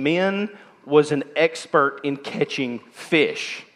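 slow, lightly Scottish preacher quote; a hint of a Scottish pastor's boom, unhurried; booming Scottish accent. Pastor quoting William Steele in a light, slow Scottish accent. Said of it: "In a booming Scottish accent".

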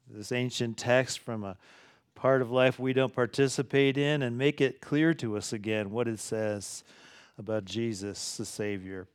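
soft, fading pastoral prayer; quiet prayer that fades to a hush. Acted. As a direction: pray gently on behalf of the church. Leads the congregation in prayer.

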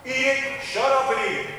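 mock scolding parent. Parent telling a child complaining about cold food, mock scold. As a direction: play the fed-up parent, half in jest.

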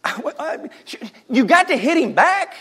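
high, coaxing mother; a light mock explanation; mom reasoning. Mom telling son he got vengeance. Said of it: "And I'm like".

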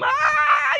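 high, loud flailing squawk; Kermit the Frog yell. Retold or imitated. Preacher imitating Kermit meme for church, high loud squawk. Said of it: "Like Kermit the Frog on that meme".

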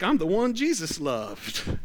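slow, lightly voiced self-satisfied apostle; a hint of John bragging; smug John. Pastor voicing John bragging he was Jesus' favourite, slow and smug. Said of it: "John's like".

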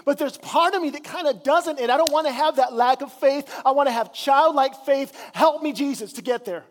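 honest prayer. Retold or imitated. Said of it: "it's an honest prayer".

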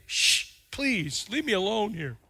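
soft, pleading hush; quiet plea to the stands; embarrassed hush. Retold or imitated. Timmy hushing his cheering family, soft plea. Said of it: "as if to say".

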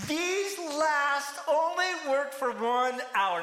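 high, slow, indignant whine; grumbling complaint. Retold or imitated. Workers grumbling at the master of the house, a slow high whine. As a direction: drag it out like a sulking complaint. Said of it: "they grumbled".

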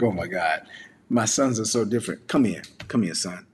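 low, gentle father calling his son close; low tender coaxing; fatherly comfort. Retold or imitated. Father consoles older son.

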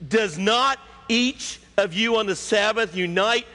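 high, forceful challenge; shouted rebuke. Acted. Jesus challenging the hypocrites about the Sabbath, shouted rebuke. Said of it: "he just simply shouts out".

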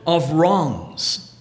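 slow, measured reading of scripture, letting the lines land. Acted. Preacher reads the love chapter to the congregation, measured scripture reading. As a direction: read the love passage like a lesson from the pulpit.

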